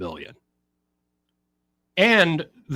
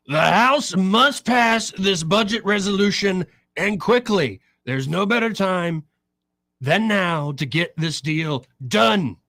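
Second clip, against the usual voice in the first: high, drawn-out, emphatic post reading; all-caps proclamation; 6 semitones higher, slower than usual. Retold or imitated. Reading out the president's all-caps post, emphatic proclaiming voice. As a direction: proclaim it slowly in a raised pitch. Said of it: "in all caps".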